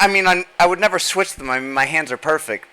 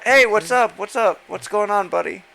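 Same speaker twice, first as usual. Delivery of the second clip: hammed-up chummy greeting; mock bro voice; 3 semitones higher than usual. Friend mocks a voice in chat, hammed-up bro greeting. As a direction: greet like an old buddy, laughing. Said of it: "we should all start talking like this".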